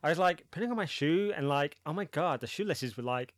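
mock American valley-speak, stuffed with likes; exaggerated American accent, lilting through a trivial story. Host parodies lots of likes with a shoelace story, in a mock American accent. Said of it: "Yeah, lots of likes".

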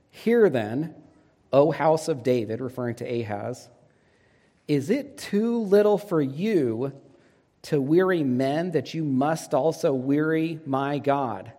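a touch of anger, slow and measured; a hint of a stern prophet; angrily. Isaiah rebuking Ahaz, mildly angry and slow.

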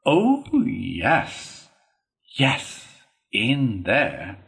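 exasperated concession; impatient Toad. A narrator's reading. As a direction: brush the reminder aside. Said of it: "said Toad impatiently".

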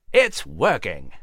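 mouse cheering. Acted. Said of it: "Nigel cheered".

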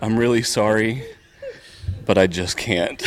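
real laughter breaking into the quoted words; giggling through Rob's apology; laughing through words. Real, not acted. Telling the con crowd about Rob, laughing through it.

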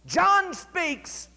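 ringing shouted proclamation; cried out. Retold or imitated. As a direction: call it out like a revival preacher proclaiming. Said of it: "and then he cried out".

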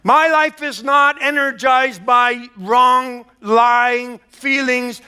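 slow, loud declaration with full force; preaching shout. Real, not acted. Preacher proclaiming to the congregation, a slow loud shout. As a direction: shout it out and drag every word.

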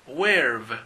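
where've repeated as weɾv with a falling tune; steady model of where've; where've, one short syllable; model pronunciation. Shown as a demonstration. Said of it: "Esto es muy común".

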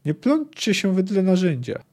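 mildly menacing warning, sinking at the end; ominous hollow voice. Acted. Executioner warns the official off the block, ominously. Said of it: "powiedział złowróżbnie głuchym głosem".

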